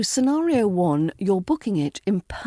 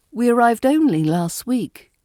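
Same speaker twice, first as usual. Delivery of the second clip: "only" raised and weighted; stress on only; 4 semitones higher, 4 dB louder than usual. Shown as a demonstration. Teacher modelling a sentence, stress on only. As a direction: lean on "only", falling to the end. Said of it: "Only usually carries a slightly stronger stress".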